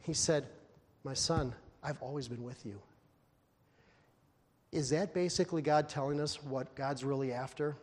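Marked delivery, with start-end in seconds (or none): 1.0-2.8 softer, gentle reassurance; father quietly reassuring his elder son; tender father. Acted. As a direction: speak it like a loving father.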